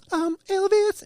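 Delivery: high put-on voice of Andrew; impression of Andrew. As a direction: mimic a coworker's voice, way up high. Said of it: "he does the voice".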